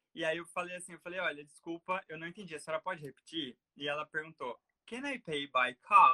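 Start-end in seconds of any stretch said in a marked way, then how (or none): 4.8-6.1 put-on booming, very loud, slow, drawn-out London accent. Recounting a woman from London asking him a question, imitating a London accent. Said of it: "não estava acostumado com o sotaque dela".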